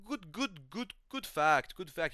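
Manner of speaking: high, slow put-on stoner voice; Shamil. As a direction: imitate a gullible pal approving. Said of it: "He's like".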